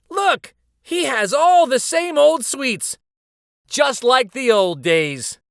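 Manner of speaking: very high and loud, slowing at the end; thrilled crowd shouting; excited shout. A narrator's reading. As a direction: shout with delighted surprise. Crowd roars in delight.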